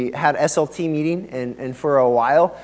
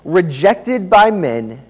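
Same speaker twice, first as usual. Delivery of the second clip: measured, emphatic reading of scripture; 2 semitones higher, 6 dB louder, slower than usual. Acted. Preacher opens by reading the passage to the church, scripture reading. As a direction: proclaim it phrase by phrase, slowly.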